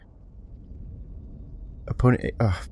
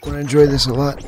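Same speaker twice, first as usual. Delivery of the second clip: higher-pitched playful creature voice; gloating monster; 4 semitones higher than usual. Pretend. Alien queen player to a victim, gloating creature menace. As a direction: savour the kill in a put-on voice.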